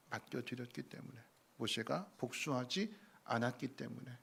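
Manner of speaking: usual speaking voice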